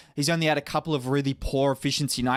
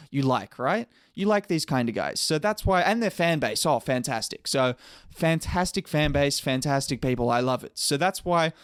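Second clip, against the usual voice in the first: sarcastic. Acted. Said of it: "that was sarcasm".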